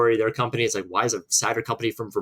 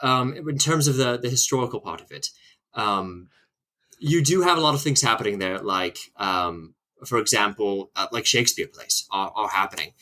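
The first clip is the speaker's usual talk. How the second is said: put-on posh British accent. Guest put on the spot to answer history question, posh British accent. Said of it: "in a British accent".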